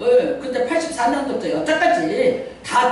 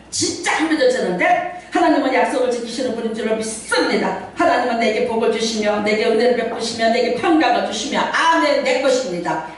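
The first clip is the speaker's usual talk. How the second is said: reenacted prayer. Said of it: "난 이렇게 기도했어".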